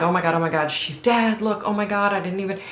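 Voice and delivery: imitating panic. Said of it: "She's flipping out".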